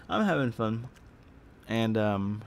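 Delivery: talking with mouth full; words around a mouthful of food. Real, not acted. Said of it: "sorry, I had something in my mouth".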